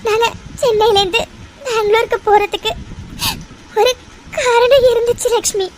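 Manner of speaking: teary, halting confession; tearful confession. Acted. Mother unburdens her past to friend, teary. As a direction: hold back tears as you confess.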